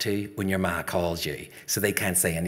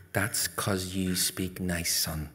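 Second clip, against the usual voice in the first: slow, softened, lower mother's voice; tender reassurance; 3 semitones lower, 5 dB quieter, slower than usual. Acted. Ma comforting her son, tender. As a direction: reassure him gently.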